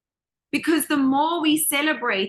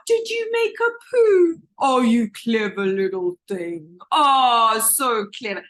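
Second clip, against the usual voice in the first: cooing parent; 4 dB louder than usual. Acted. Parent congratulating a baby on a poo, cooing. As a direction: gush over a baby like a delighted parent.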